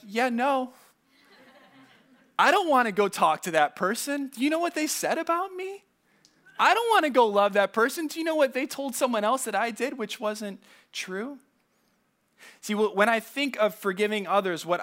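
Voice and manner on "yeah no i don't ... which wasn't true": higher, indignant protest, a touch whiny; indignant self-mock. Pastor admits to the church how he really feels, indignant and mocking. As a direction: act out your own grudging refusal, aggrieved. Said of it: "what I really want to be is like".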